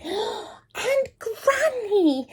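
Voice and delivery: high, very slow and careful; girl speaking cautiously to the wolf. A narrator's reading. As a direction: ease into it cautiously. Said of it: "Little Red said carefully".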